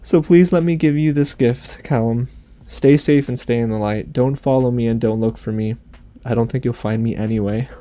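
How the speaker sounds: tender reading of a farewell letter, lightly voiced. Reading Rayla's letter to Callum aloud, gentle and tender.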